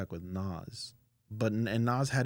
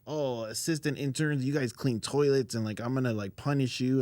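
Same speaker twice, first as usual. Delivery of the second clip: cocky imitation; 5 semitones higher, 4 dB louder than usual. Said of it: "Super cocky".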